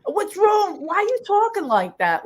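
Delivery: high-pitched mock bewilderment; baffled onlookers. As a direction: question her like she's lost it. Baffled kids react to her diction.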